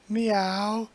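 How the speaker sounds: a mewing cat call with a rising tune; a playful, cutesy kitty meow. Pretend. Voicing the cat again.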